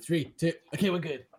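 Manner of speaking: loud mock stoner countdown; hammed-up teen with a bong. Mimicking teens hitting a bong.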